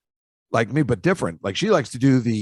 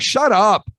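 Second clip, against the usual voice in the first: mock angry retort; 5 semitones higher, 4 dB louder, slower than usual. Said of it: "And I'm like".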